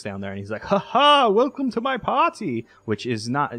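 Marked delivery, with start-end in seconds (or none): 0.6-2.7 high, loud mock French host greeting; a hammed-up French villain welcoming guests; mock French accent. Party host greeting the players in mock French accent. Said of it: "the French accent".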